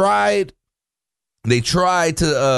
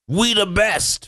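a DJ's catchphrase; 3 semitones higher, much slower than usual. Retold or imitated. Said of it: "a DJ".

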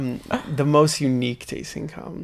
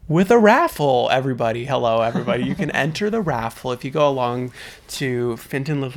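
announcer voice; 3 semitones lower, 4 dB louder than usual. Pretend. Mock announcer address.

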